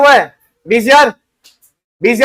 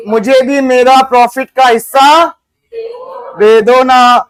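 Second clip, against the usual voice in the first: sweet pleading; slower than usual. Acted. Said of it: "बड़े प्यार से बोल रहे".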